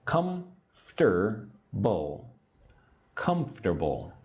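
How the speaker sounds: comfortable said as three syllables, COMF-tr-ble. Shown as a demonstration. Teacher models comfortable for learners, three syllables. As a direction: say comfortable as kumf-ter-bul, three beats. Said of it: "three syllables".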